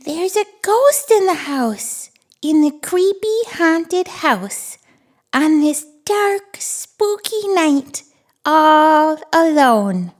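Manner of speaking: slow, hushed spooky read-aloud; spooky voice for the children; spooky storytelling. Acted. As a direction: read it like a campfire ghost story. Reading the picture book aloud.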